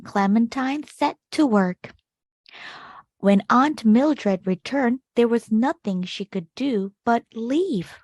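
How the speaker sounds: put-on gentle read-aloud for children, measured pace; storybook narration. A narrator's reading. Teacher reading a picture book to kids, expressive narration. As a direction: tell the tale to a class of young listeners.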